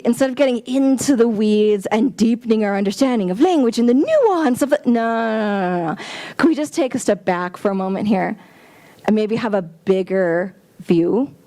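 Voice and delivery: usual speaking voice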